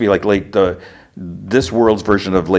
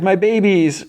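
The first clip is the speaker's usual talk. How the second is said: high, drawn-out gushing; joyful mother cry; 12 semitones higher than usual. Retold or imitated. Minerva crying tears of joy at the reunion, joyful gushing. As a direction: gush it high, mildly mock-tearful. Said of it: "Minerva cries tears of joy".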